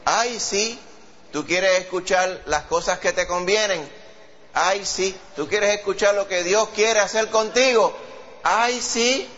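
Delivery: high, slow, whiny sing-song "ay, sí"; mocking child. Preacher imitates a child mocking grown-ups, high and whiny. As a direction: mimic a sassy kid brushing off advice. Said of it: "un niño va a decir".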